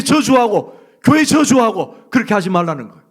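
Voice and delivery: high, loud impassioned preaching; full-force preaching. Real, not acted. Preacher exhorts the congregation not to curse, shouting. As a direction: cry it out to the congregation.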